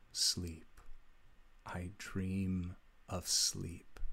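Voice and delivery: slow, soft hollow metallic voice. Acted. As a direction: drone it slowly like a machine. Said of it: "that same metallic voice".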